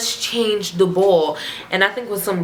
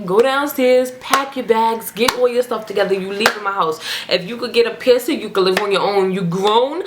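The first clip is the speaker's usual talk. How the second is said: mildly hammed-up scolding grandma; parent's rant; 3 semitones higher than usual. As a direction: rattle off a slightly raised imitation of a telling-off. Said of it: "parents are going that whole rant".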